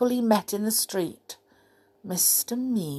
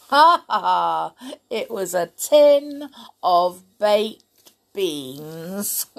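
real laugh; 4 dB louder than usual. Real, not acted. Reader laughs at ending.

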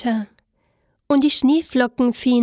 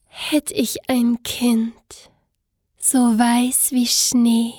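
whispering; slower than usual. A narrator's reading. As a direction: breathe the wish in a whisper. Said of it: "dachte sie bei sich".

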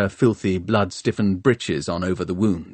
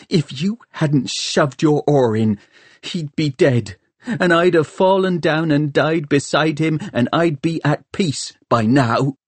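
bitter blame; 6 semitones higher than usual. A narrator's reading. Bitter blame, facing Tom.

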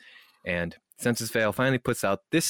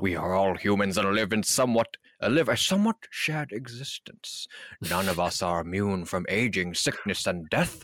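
mock professional statement. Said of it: "Yes, professional".

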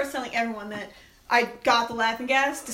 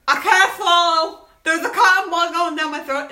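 mock panic; 6 semitones higher, 10 dB louder than usual. Stuck in the dentist chair, mock panicking loudly. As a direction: panic about the cotton ball, laughing. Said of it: "I'm like".

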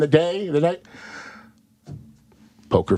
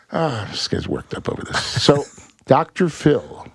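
usual speaking voice

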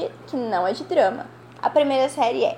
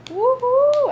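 high-pitched whoop of joy; high cheer; 13 semitones higher, 4 dB louder than usual. Real, not acted. Cheer for favourite show.

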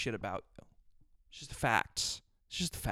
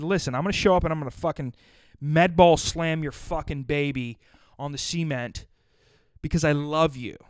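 louder, hammed-up tough-guy threat; mock furious threat; 7 dB louder than usual. Telling his producer off as a joke, in a loud mock rage. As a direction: bark it out like a joking brute. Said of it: "That's what I told Sean".

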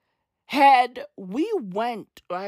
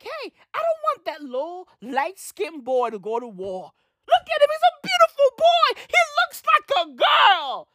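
mock Mandela; 3 semitones higher than usual. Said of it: "and he was like".

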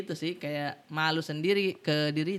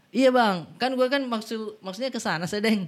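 lightly put-on Jakarta slang, higher at the start; own slipping Jakarta accent; 4 semitones higher than usual. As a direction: try Jakarta talk with Makassar leaking in. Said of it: "pernah kayak".

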